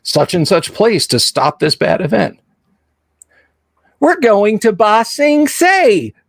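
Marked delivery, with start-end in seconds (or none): 4.0-6.1 mock Midwestern accent for a cartoon traveler; flat Midwestern accent. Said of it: "flat Midwestern accents".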